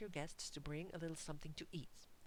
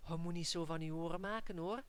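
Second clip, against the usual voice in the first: ironic; 5 dB louder than usual. Acted. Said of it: "mostly ironically".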